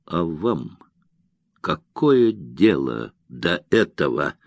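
cool, slow, dismissive retort; a lightly voiced cold officer; coldly. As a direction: shut him out with icy calm. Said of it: "добавил холодно".

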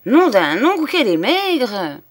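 loud, high, scornful exclamation; contemptuous. A narrator's reading. Old soldier scorning the drowned woman's body, contemptuous. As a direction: sneer it out loud. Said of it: "d'un ton de mépris".

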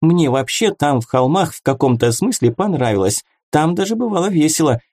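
high, quick chatter; rattling fast. A narrator's reading. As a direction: rattle it off breathlessly. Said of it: "затараторила".

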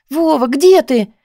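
anxiously asking where he is. A narrator's reading. Heroine phoning her missing boyfriend, anxious and pleading. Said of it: "взволнованно спросила я".

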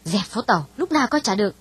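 lightly irritated brush-off; a touch of impatience; mild snap. Acted. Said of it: "Hảo gắt nhẹ". (gắt nhẹ)

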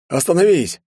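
high, loud command to stop; shout. Acted. Kikuti orders the villain to stop, shouting. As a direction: bark at him to stop.

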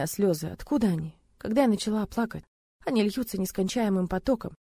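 ordinary delivery, nothing marked

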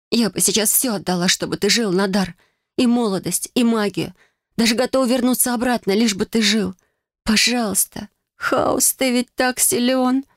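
high, rising tearful plea; desperate pleading. Acted. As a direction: beg the gods, voice climbing. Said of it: "мольбам".

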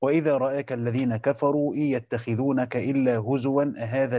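measured, chanted Quranic recitation. Acted. Sheikh reciting verses to his students before explaining them, chanted.

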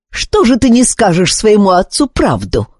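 mild taunting jab. Acted. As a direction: needle the boy, a touch mocking. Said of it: "подначил его командор Друдов". (командор подначивает Зара, слегка насмешливо)

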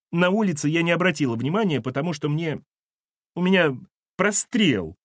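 high-pitched, plaintive excuse; tearful excuse. Acted. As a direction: explain yourself on the verge of sobbing. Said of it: "Валентина всхлипнула".

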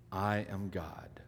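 slow whisper. Acted. Jesus quietly reassuring his disciples, whispered. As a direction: breathe it like a secret. Jesus's meaning voiced intimately.

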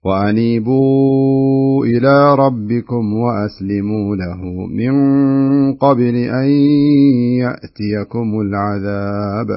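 very slow, drawn-out Quran recitation; slow recitation demo. Shown as a demonstration. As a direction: recite each word slowly and clearly. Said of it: "بهذا الشكل".

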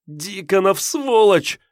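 anguished, high-pitched outburst; pained moaning curse. A narrator's reading. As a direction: curse him through a high moan. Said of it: "простонала Ольга".

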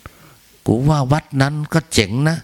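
a light impression of temple gossip; mock gossip. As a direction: drag it out like a chatty monk-to-be. Quoting a fellow meditator's chatter.

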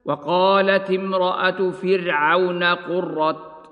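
slow recitation ending قرة on a clear t; pausal form with ta. Shown as a demonstration. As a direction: stop on قرة with the t sounded. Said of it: "ويوقف عليها بالتاء هكذا".

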